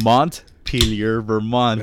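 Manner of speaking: Montpelier drawn out very slowly, syllable by syllable, then Vermont; saying the capital slowly and clearly; careful pronunciation. Shown as a demonstration. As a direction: spell out Montpelier slowly for the listener. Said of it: "How do you say those things?".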